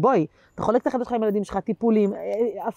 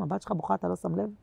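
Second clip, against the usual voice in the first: soft, hushed appeal upward; murmured prayer-like complaint to God; quiet plea to God; 7 dB quieter than usual. Real, not acted. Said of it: "אני לא צועקת להשם". (תחינה שקטה לה')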